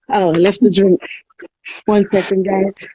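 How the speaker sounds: winded after the workout; out of breath. Real, not acted. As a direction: still panting between words. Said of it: "catch your breath".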